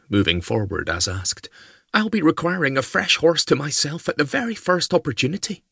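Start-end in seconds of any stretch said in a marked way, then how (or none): 1.9-5.6 put-on high, urgent young lady's voice; young woman voice. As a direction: voice the lassie high and pressing. Meg demands a horse.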